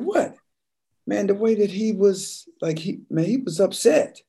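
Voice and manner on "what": high, surprised innocent question; high clueless what; mock innocent what. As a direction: play dumb, pitched way up. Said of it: "I said".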